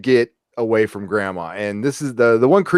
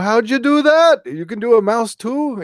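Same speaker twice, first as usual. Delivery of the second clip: amazed mock question; 12 semitones higher than usual. Retelling a character amazed by the mouse trick, high-pitched astonishment. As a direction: gush it in a much higher voice, astonished.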